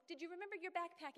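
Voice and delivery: busy mom's bossy call; barking orders. Retold or imitated. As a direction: snap out chores at the kids. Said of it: "You're barking out orders all day".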